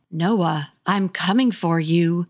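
slow, lightly gruff monster voice; a hint of a menacing monster; gruff low voice. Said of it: "her voice came out gruff and low".

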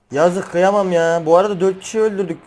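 usual speaking voice

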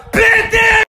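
high exasperated scream; losing it. Acted. Football fan about to flip out, exasperated scream. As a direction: blow your top on one word. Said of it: "Je vais péter un câble".

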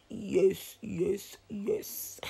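speaking with cheek retractor; lips held apart. Real, not acted. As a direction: lips stretched over braces. Seen 0: Both hands hold white retractor at mouth, lips pulled apart.

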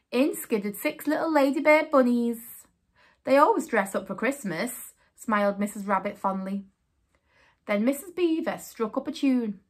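story narration. A narrator's reading. Reading picture book aloud.

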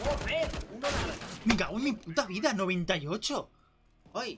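furious shout; raging gamer. Real, not acted. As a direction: yell and curse at the screen. Player raging after a near kill.

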